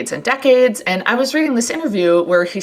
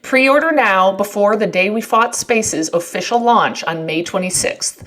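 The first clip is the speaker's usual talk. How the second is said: ad read. Acted. Reads sponsor ad.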